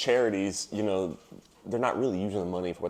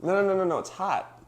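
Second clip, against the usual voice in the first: higher, insistent correction; 10 semitones higher than usual. Real, not acted. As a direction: set them straight. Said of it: "sounded like he said it's gross".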